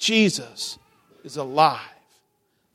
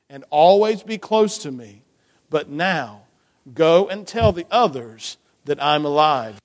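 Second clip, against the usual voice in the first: story narration. A narrator's reading. Reading the story to children.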